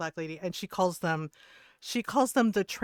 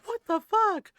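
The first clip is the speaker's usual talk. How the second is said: very high, louder squeal; mock outraged disbelief; 14 semitones higher, 7 dB louder, slower than usual. Streamer repeating the man's outburst, very high mock outrage. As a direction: squeal it as the flustered man.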